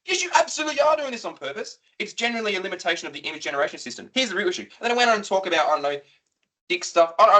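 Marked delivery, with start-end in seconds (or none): 0.0-1.8 higher, louder accusing retort; indignant retort. Retold or imitated. Arguing with ChatGPT, loud indignant accusation. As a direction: shout it back at the chatbot. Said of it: "I'm not doing it on purpose".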